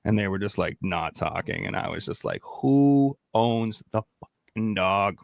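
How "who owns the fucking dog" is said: slow, drawn-out menacing question; menacing demand. Retold or imitated. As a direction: lean on each word like a threat. Menacing slow quote to workers.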